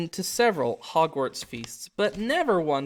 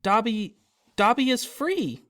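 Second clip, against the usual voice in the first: high, slow elf voice, rising to joy; squeaky little elf, triumphant; overjoyed elf, high and slow; Dobby the house-elf; 7 semitones higher, slower than usual. Acted. Elf Dobby exults at his freedom.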